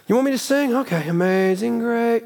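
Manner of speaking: a mock sigh of obliging boredom; grudging offer.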